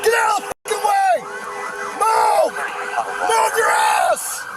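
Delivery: barked order. Real, not acted. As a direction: bark it at the traffic to move. Officer driving through traffic, yelling.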